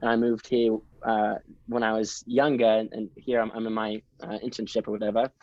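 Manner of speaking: lightly put-on British accent, chatty and casual; retold sales chat in a British accent. Student seller passing as English to a customer, British accent. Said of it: "speaking to in a British accent".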